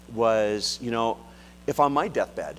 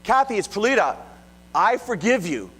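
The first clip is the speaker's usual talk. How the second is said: gentle forgiving; 9 semitones higher than usual. Retold or imitated. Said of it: "So she tried again".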